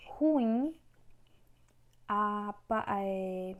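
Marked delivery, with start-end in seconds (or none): 0.1-0.7 ruim called out higher, rising on IM; calling out, stressed syllable. Shown as a demonstration. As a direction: call ruim as if to someone, weight on the end. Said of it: "Quando você vai chamar".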